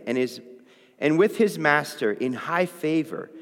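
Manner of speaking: measured, lifted Bible reading voice; scripture reading. Acted. Preacher reading scripture to the class, lifted and measured. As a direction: read the passage out to the youth group.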